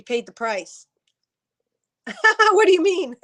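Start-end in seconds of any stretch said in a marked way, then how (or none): 2.1-3.3 high, loud laughing question. Real, not acted. Asking Kelly what she meant, laughing loudly. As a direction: laugh out the question in amused disbelief. Amused at a viewer comment.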